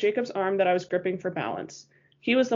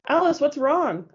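higher, slow, louder frightened plea; alarmed cry; 7 semitones higher, 4 dB louder than usual. A narrator's reading. Bella to a stricken Alice: slow, frightened cry. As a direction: call out to her in fear. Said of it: "I cried".

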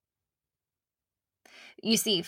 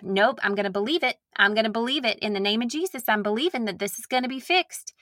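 put-on Southern prayer accent; 6 semitones higher, much faster than usual. Wife mocking her own hopeful prayers, in a light Southern accent. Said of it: "Why do I go into a Southern accent when I pray?".

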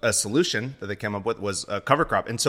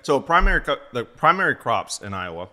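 mouth full; 4 semitones higher, 3 dB louder than usual. Real, not acted. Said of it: "pardon me, I got my mouth full".

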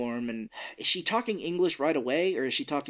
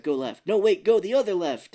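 rising panic; 6 semitones higher, 7 dB louder than usual. Retold or imitated. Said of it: "he's like".

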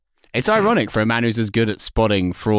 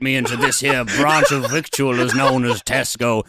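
a hint of a genteel Southerner; southern gentleman. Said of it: "when I'm dressed as the Colonel".

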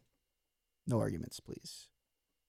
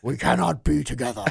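mock British. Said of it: "what that sounded like".

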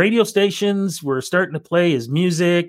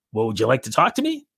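imitating a singer; 3 semitones lower, faster than usual. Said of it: "I'll do the imitation of it".

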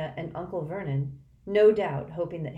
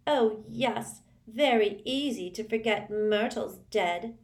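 tearful; 6 semitones higher, slower than usual. Acted.

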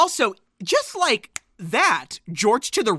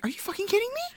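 exasperated disbelief; 12 semitones higher, 6 dB quieter, much faster than usual. Retold or imitated. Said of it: "Jules is like".

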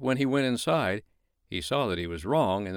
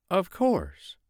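snowman voice; 10 semitones higher than usual. Acted. Snowman answers king.

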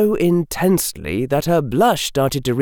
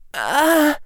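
high hesitant gasp. Acted. Rian hesitates.

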